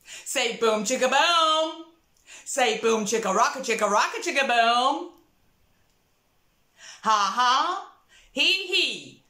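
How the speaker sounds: lightly drawled cowboy voice; a hint of a cowboy. Shown as a demonstration. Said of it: "Cowboy voice".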